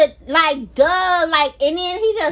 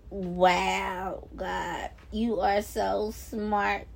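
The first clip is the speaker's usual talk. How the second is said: much softer and lower, slow amazement; awed whisper; 9 semitones lower, 10 dB quieter, much slower than usual. Retold or imitated. Vlogger retelling her amazed reaction to God, hushed. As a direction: breathe it out in quiet awe. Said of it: "My whole face just went like".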